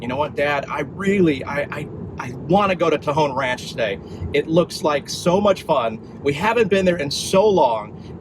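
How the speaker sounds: mock whiny plea from his son; imitating son pleading. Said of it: "he thought".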